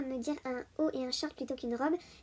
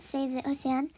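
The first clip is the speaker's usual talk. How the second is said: "Save the Ocean" said slowly in a heavy French accent, as "sèze o sé-anne"; slow Save the Ocean with French vowels and no English "th"; slower than usual. Real, not acted. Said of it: "Pardon pour mon magnifique accent anglais".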